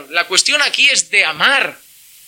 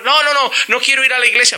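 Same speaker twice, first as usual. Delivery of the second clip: hijo rebelde; 3 semitones higher, faster than usual. Retold or imitated. Hijo se niega, diálogo actuado.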